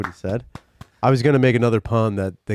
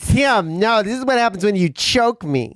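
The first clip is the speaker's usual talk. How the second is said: mock cold girlfriend; 8 semitones higher than usual.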